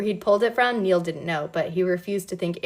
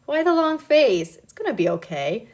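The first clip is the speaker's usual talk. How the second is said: put-on soothing a child; 7 semitones higher, 4 dB louder than usual. A narrator's reading. Andrew comforting Nikki at knifepoint, cooing. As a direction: coo as if to a troubled child. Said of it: "like he was soothing a troubled child".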